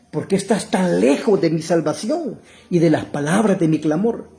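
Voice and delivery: preacher declaiming an anguished prayer; crying out to God. Acted. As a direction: plead with a touch of anguish. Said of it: "David está gritando".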